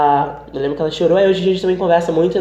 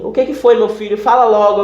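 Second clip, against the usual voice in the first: higher, pressing acted questions; impatient grandmother; 5 semitones higher than usual. Grandmother pressing grandson for his news, impatient. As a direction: imitate a grandmother demanding to be told.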